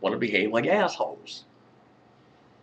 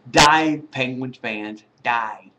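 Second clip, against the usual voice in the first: mock fan cry; 2 semitones higher, 8 dB louder, much slower than usual. Real, not acted. Sports nut yelling at Penguins fans, loud jeer. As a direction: bellow it at the other team's fans.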